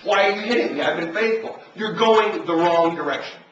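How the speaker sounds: donkey scolding. Acted. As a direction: voice the hurt, faithful donkey. Preacher voices the donkey scolding Balaam.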